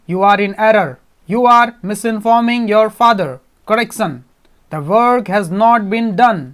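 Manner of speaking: flat emotionless robot, slow and loud; slow, loud, flat robot warning; metallic robot voice. Acted. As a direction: drone each word like a machine with no feeling. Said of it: "अपनी metallic voice में".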